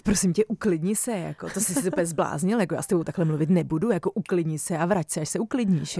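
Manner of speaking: exasperated mock telling-off with lively swings; agitated scolding. Shown as a demonstration. Coach showing the wrong way to answer, agitated scolding. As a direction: scold as if ordering someone to calm down. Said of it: "No pozor, když budeš říkat".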